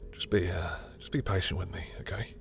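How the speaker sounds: soft, gentle request; tender plea. Acted.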